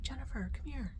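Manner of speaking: quoting a kindly grandfatherly call; sweet pastor, imitated. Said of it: "just the sweetest, kindest man".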